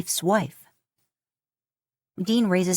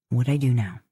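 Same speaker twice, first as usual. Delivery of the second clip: teasing; 5 semitones lower than usual. A narrator's reading. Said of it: "More teasingly".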